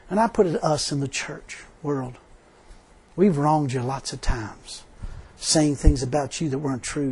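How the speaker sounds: hushed heartfelt closing prayer. Acted. Closes in prayer.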